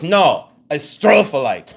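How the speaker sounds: slow, booming mock yell; hammed-up emphatic correction, STRO drawn out; imitated yell. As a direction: imitate him insisting at full volume. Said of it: "Do you have to yell it".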